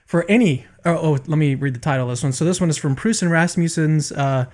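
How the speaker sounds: winded after push-ups; out of breath. Real, not acted. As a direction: talk while still catching your breath. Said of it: "Sorry, I'm still catching my breath".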